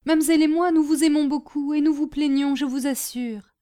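moved, earnest sympathy; tender reassurance. A narrator's reading. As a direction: assure a friend of affection. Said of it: "dit Prudence attendrie".

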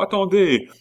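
high, loud shouted command; all voices answering. A narrator's reading. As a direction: call out urgently as a crowd. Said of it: "répondirent toutes les voix". (cri fort et aigu)

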